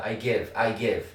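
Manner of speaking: very slow, each word drawn out; slow drill. Shown as a demonstration. Teacher drilling class slowly. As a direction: model the phrase slowly for students. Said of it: "여기까지 연습이 된 겁니다".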